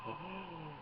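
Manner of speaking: slow imitated creature, pitch swooping in wonder; Yoda. Yoda realising whom Luke seeks, slow swooping impression. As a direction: draw out each word like a wise puppet. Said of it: "And then Yoda's ears go up".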